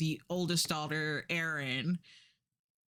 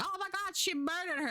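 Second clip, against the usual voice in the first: higher hushed mock horror; mock shock; 13 semitones higher than usual. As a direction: gasp it out as if stunned. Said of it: "So it's like".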